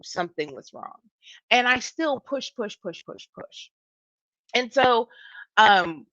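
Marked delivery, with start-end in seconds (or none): 2.2-3.7 repeats fading away to a whisper; dogged pushing. Retold or imitated. Speaker admitting they ignored their body, doggedly fading. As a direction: push on until the voice runs out. Acting out pushing on though unwell.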